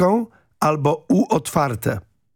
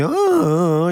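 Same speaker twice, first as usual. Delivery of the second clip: mock "ooh", raised in pitch; imitated "o, o, o"; 6 semitones higher, slower than usual. Host mimics sports colleague's first reaction, imitated "o, o, o". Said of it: "koleżanka od sportu na początku mówi".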